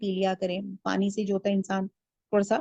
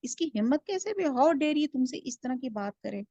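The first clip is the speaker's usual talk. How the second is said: goading tempter; 3 semitones higher, 4 dB quieter than usual. Acted. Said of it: "شیطان اس کو پٹی پڑھا رہا ہے کہ".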